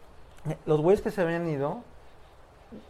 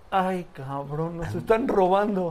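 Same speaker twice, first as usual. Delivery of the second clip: burla sarcástica; slower than usual. Retold or imitated. Los armados se burlan.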